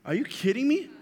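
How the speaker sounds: high incredulous outburst; can't believe what he's hearing. Real, not acted. Youth preacher shocked that students carry no textbooks.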